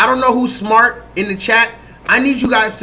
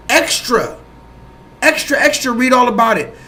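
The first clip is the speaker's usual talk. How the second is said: newsboy call; 3 semitones higher than usual. Pretend. Streamer announcing the Ukraine news, mock newsboy cry. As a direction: shout the headline like a paper boy on the corner.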